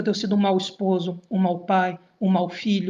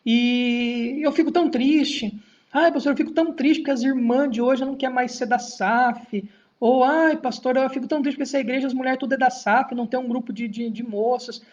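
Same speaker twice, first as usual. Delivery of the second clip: mock whiny member; 2 semitones higher than usual. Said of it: "já vi o contrário também".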